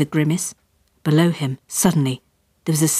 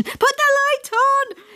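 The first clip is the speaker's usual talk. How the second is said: higher, slow, drawn-out panicked yell; dad repeating the order, slower and higher; slower than usual. Acted. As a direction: stretch out the desperate order. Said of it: "he yelled in my direction".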